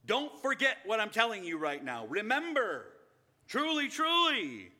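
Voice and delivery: high, loud, urgent plea that stretches out the final truly, truly; Jesus urging his disciples to remember, loud and pleading; Jesus pleading with love. Acted. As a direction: grab them by the lapels, lovingly, not angrily. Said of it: "taking his disciples by the lapels with love, not anger".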